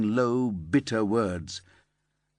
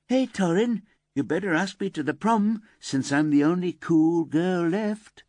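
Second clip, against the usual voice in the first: much higher, louder, brash self-imitation; cocky flirty call; 9 semitones higher, 4 dB louder than usual. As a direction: mimic her own cheeky challenge. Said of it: "and I kind of went".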